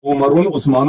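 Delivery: عمرن، عثمانن each read with an added -un ending; quoted mispronunciation. Retold or imitated. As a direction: imitate the faulty reading, stressing the -un in عمرن، عثمانن. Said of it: "یہ کسی عربی زبان کا لفظ نہیں ہے". (عمرن، عثمانن کے آخر میں غلط نون کی آواز)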